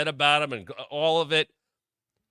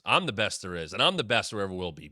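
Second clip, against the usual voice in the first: arrogant boast; 4 semitones lower, faster than usual. Retold or imitated. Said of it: "there was sarcasm".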